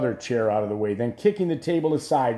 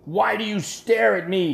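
put-on high, loud drunken cry; a drunken old king shrieking at a stuffed head; 9 semitones higher, 4 dB louder than usual. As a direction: shriek it at the dragon's head, half mad. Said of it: "he shrieked in his drunkenness".

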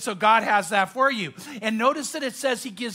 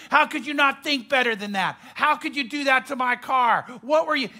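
raised, exasperated father berating his son; angry dad scolding; 3 semitones higher than usual. Retold or imitated. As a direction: scold him like a furious dad over his wrecked car.

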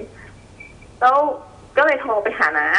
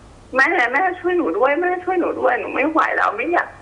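retold panicked plea; 6 semitones higher than usual. Retold terrified plea to mother.

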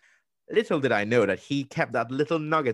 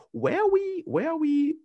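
high, drawn-out incredulous whine; exasperated disbelief; 4 dB louder than usual. Retold or imitated. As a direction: plead in mock despair, voice climbing high. Exasperated rhetorical question to himself.

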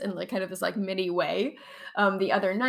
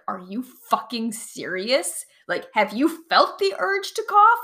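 incredulous, angry retort; irrational anger; 3 semitones higher, 7 dB louder than usual. Retold or imitated. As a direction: retell your furious disbelief at the advice. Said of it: "I got so irrationally angry".

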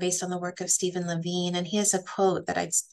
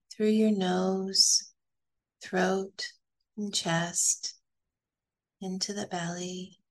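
calm, unhurried guidance with long pauses; guided meditation. Acted. Teacher guiding a group through belly breathing, calm meditation voice. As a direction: lead them gently through each breath, leaving space.

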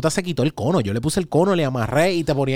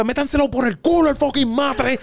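quiet rage; 10 semitones higher than usual. Retold or imitated. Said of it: "esto era todo así bajito".

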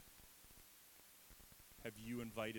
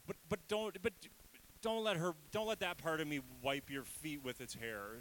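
high, loud, anxious begging; flustered Pharisee pleading with Jesus, high and urgent; panicked plea; 4 semitones higher, 4 dB louder than usual. Acted. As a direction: beg Jesus to look away in alarm. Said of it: "Where you say".

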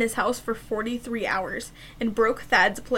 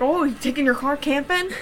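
deadpan sarcastic jab at the tents post; sarcastic troll; 3 semitones higher than usual. Acted. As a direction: play dumb to needle the seller.

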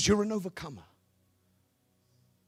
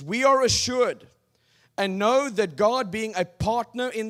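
loud, raised scripture reading; preaching; 6 semitones higher, 7 dB louder than usual. Acted. Preacher reading Romans to the congregation, loud and proclaiming. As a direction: proclaim the verse to the crowd.

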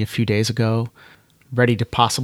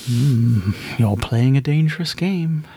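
knowing inner voice; 2 semitones higher than usual. Acted. Voice repeats its warning.

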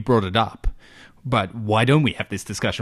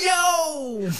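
squeaky yo. Acted. Hammy youth theatre yo.

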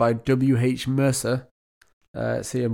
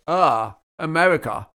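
put-on weak Russian accent; 3 semitones higher than usual. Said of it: "I should do a better Russian accent".

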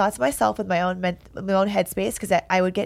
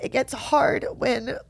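tearful. Real, not acted. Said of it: "sitting here crying on camera".

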